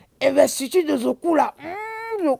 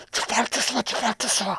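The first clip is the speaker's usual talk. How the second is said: soft, hushed repetition; speaking softly; 6 dB quieter, faster than usual. Shown as a demonstration. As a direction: say it softly, almost fading.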